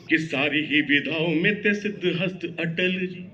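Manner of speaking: rhythmic, declaiming verse; poem recitation. Acted. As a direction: recite it like a stage poet.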